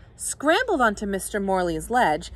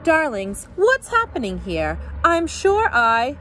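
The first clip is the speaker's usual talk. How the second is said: diva voice; 6 semitones higher, 3 dB louder than usual. Acted. Diva Sandra speaks.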